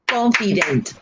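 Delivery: "Confident" measured out in three beats; syllable by syllable. Shown as a demonstration. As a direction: sound out each syllable of "Confident". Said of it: "three syllables".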